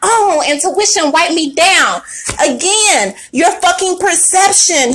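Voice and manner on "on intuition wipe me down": cocky shout. Retold or imitated. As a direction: burst out showing off. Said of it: "that energy of".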